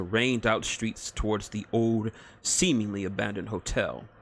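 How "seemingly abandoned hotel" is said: ordinary delivery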